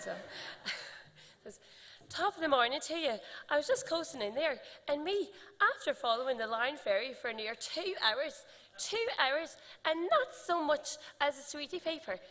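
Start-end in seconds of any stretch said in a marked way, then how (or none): 1.5-12.2 high-pitched, louder stage Irish accent as a seagull. Shown as a demonstration. Asked to do her childhood seagull role, in a high, loud Irish accent. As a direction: ham up a broad Irish accent for Sammy the seagull. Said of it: "I'm sorry if I offend anyone with my Irish accent".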